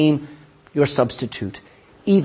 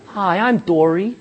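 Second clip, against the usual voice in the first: a hint of a laughing, scatterbrained fish voice; tossed-off joke voice of the forgetful fish, through a laugh; Dory impression; 5 semitones higher, slower than usual. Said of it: "attention span of a goldfish".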